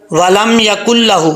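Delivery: ولم یکن لہ slowly, نون dropped; slow chant of ولم یکن لہ; tajweed recitation. Shown as a demonstration. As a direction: Quranic chant. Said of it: "بیچ میں جو نون ہے اس کو ختم کر دیں گے".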